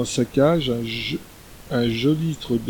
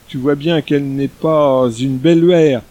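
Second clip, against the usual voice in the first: gently chiding a pet, a bit louder; understated scolding of a caged pet; mild scolding; 4 dB louder than usual. Acted. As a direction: scold the creature like a spoiled child. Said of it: "le gronda la très honorée".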